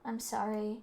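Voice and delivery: ordinary talk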